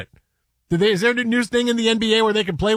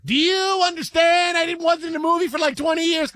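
high-pitched comedian impression; Chris Tucker impression; 10 semitones higher than usual. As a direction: push it way up high and stretch the outraged question. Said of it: "You wanna do a Chris Tucker impression?".

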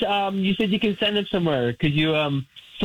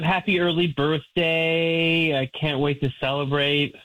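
slow dictation; 3 semitones lower than usual. Real, not acted. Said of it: "just, uh, put".

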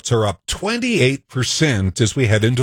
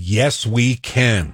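"Yes, we can" said slowly, with a flat-A can; quoting Obama's slogan; much slower than usual. Retold or imitated. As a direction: draw out "Yes, we can" word by word. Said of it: "when Obama said".

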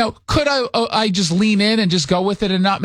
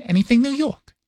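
vague, higher New York mom impression; mother's New York accent; 6 semitones higher than usual. Mother requests photo from son, higher New York accent. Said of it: "talks like this all the time".

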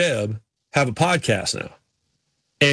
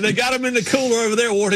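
quoting Schrader; 7 semitones higher than usual. Retold or imitated. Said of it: "He said".

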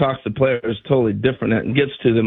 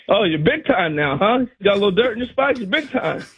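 teasing, higher and quick at the end; mock ribbing; 5 semitones higher than usual. Brett needling the silent rookie, mock teasing. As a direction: needle him for ignoring you. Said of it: "he's like".

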